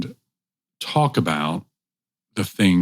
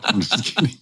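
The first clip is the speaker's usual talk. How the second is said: laughing; 8 semitones higher than usual. Real, not acted. Laughs after sponsor shout-out.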